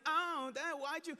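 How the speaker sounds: mock a little kid's hurt protest; lightly voiced tearful kid; upset crying child. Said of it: "So he's upset. He's crying".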